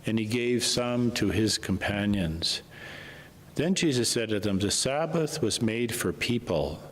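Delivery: measured liturgical reading voice; gospel reading. Acted. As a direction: proclaim the scripture to the church.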